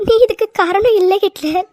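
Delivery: teary, gentle நீ காரணம் இல்ல; tearful reassurance. Acted. Wife to her crying husband, tearful comfort. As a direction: soothe him through your own tears.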